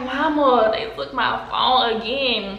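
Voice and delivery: breathless, slow and weary; out of breath. Retold or imitated. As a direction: say it winded after running. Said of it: "I'm out of breath already".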